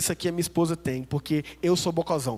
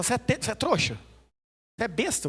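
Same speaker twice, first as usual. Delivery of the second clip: wife's scolding; 3 semitones higher than usual. Retold or imitated. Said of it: "ela fala".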